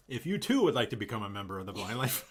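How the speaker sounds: quick rushed sales plug; infomercial voice. Acted. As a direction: rattle off the plug like an ad. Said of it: "You sound like an infomercial".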